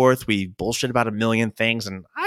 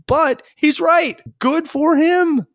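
laughing approval; 4 dB louder, much slower than usual. Real, not acted. Laughing approval of Disney worker.

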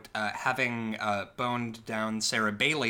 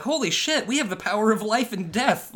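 much higher and louder, giddy with power; thrilled gasp; 8 semitones higher, 6 dB louder than usual. Retold or imitated. The witches celebrate killing a man, high and loud. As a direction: marvel at your own power. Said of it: "they were like".

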